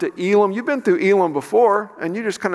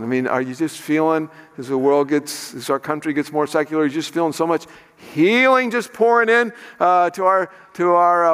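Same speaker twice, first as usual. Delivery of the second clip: sarcastic. Acted. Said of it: "a little sarcastic here".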